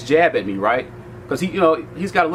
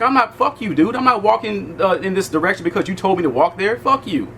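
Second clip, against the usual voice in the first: higher-pitched retold defiance; defiant retort; 5 semitones higher than usual. Refusing to walk where the guard told him, defiant retelling. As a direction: push back indignantly, no added volume.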